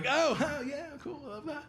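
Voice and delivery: high, small, uneasy agreement; feigned pleasure. Acted. Feigns pleasure at backhanded compliment.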